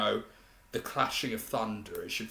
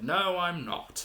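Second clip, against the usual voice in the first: higher, louder, slower shout; 8 semitones higher, 4 dB louder, slower than usual. Retold or imitated. Reviewer imitating Tiberius shouting the line. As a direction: throw the line out big and theatrical. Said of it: "he shouts".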